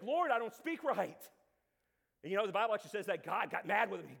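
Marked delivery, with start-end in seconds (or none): 0.0-1.3 acted complaint. Acting Moses pleading with God.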